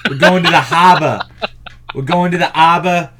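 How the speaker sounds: fast, loud mock Brooklyn accent; a quick hammed-up New York Brooklyn twang. Joking to co-host, fast Brooklyn accent. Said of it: "that was a Brooklyn accent".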